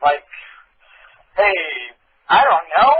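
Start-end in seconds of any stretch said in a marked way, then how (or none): 1.4-2.9 slow, deepened, chest-out tough-guy voice. Asked which voice they mean, the speaker demonstrates it: deep tough voice. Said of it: "Keep doing that voice because it, like, deepens it".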